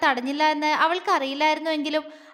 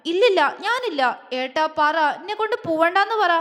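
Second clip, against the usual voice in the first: frightened pleading; 4 semitones higher than usual. Acted. Begging brother to save her.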